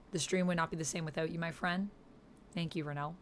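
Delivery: soft, sincere gratitude; hushed, tender thank-you; heartfelt thanks. Real, not acted. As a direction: say it quietly and mean it. Heartfelt closing thanks to donor.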